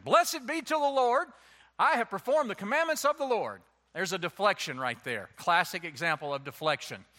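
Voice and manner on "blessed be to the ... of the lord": lightly voiced Saul. Saul voiced in scripture reading.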